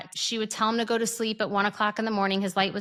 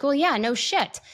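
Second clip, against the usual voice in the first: higher, a bit louder no shit; incredulous no shit; 6 semitones higher, 3 dB louder than usual. Retold or imitated. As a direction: blurt it out in disbelief. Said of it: "It was just like".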